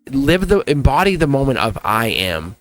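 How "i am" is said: solemn affirmation. Acted. Reader modelling Leo's I am affirmations, solemn and deliberate. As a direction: let each statement land, pausing between them. Voicing affirmations for Leo to embody.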